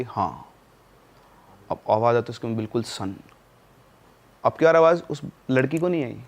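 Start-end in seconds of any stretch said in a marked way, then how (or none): 0.0-0.5 low, soft ghostly yes from nowhere; ghostly answer. Retold or imitated. Hidden voice answering the mother's call, low and soft. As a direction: answer like an unseen man, low and quiet. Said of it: "उधर से आवाज़ आई".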